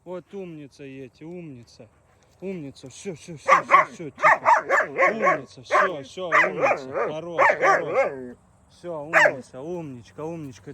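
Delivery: high soothing praise; calm the dog with praise; talking to a dog. Real, not acted.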